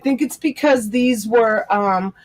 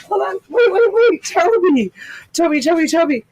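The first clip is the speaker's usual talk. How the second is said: calling the dog; 7 semitones higher than usual. Real, not acted. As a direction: call the puppy to come back.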